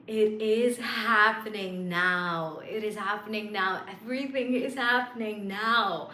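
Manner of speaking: awed, happy affirmations; delighted disbelief. Shown as a demonstration. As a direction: savor the thrill of it finally coming true. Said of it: "bring that smug smile".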